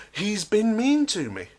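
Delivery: childish fake-hurt whine; mock whiny complaint. Mimics tearful coworker.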